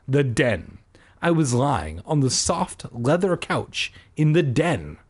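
measured audiobook read; story narration. A narrator's reading. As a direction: narrate it steadily, line by line. Reads the story aloud.

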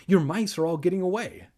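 shrieking. A narrator's reading. Evan warns Kermit the mice are escaping, shrieking. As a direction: cry it out loud and high. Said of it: "Evan shrieked".

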